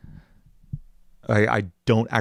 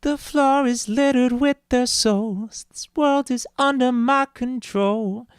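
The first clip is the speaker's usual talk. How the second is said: demon voice; 14 semitones higher, slower than usual. Acted. Demonic voice lines.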